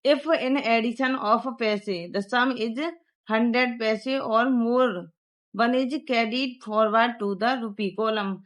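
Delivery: slow dictation pace reading the rule; textbook reading. Shown as a demonstration. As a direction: read it out slowly so pupils can copy. Reads textbook rule aloud.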